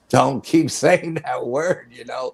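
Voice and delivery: scared giggle as you tell him to quit it; nervous laughing plea. Retold or imitated. Begging cousin not to say it.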